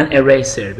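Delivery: "An eraser" with "an" linked into "eraser"; teacher repeats. Shown as a demonstration. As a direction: repeat "An eraser" slowly, joining an to eraser. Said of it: "ببینید اونجا گفت a book، ولی اینجا گفت an eraser". ("An eraser" را با وصل کردن an به eraser تکرار کن)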